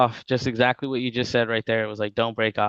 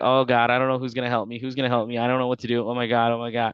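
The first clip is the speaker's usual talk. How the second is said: mock panicked voice, acting out panic. Picturing a brand new agent alone in a room: acting out panic. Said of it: "I'm panicking".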